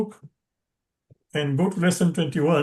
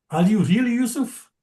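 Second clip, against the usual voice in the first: brothers' surprise; 5 semitones higher than usual. Acted. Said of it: "their surprise".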